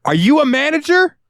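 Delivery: high falsetto demand for the manager; mock customer voice. Cashier mimics a customer asking for a manager in a high falsetto. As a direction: whine it like an entitled shopper.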